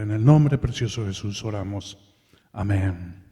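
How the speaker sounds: hushed, earnest prayer with falling endings. Acted. Preacher leads a prayer.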